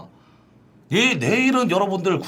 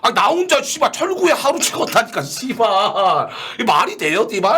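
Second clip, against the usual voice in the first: angry ranting; 5 semitones higher than usual. Real, not acted. Ranting angrily to chat.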